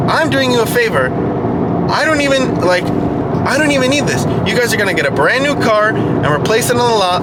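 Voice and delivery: acted-out hard bargaining; firm negotiator. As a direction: re-enact standing your ground with a salesman. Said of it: "this is exactly how I talk to them".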